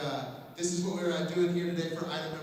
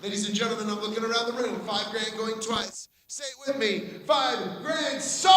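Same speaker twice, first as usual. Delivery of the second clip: auctioneer; 2 semitones higher than usual. Real, not acted. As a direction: call the bids like an auctioneer. Live auction calling.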